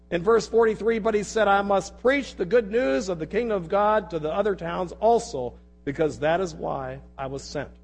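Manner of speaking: projected, declamatory reading from the pulpit; forceful scripture reading. Real, not acted. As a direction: read the passage out to a whole congregation. Resumes reading the passage aloud.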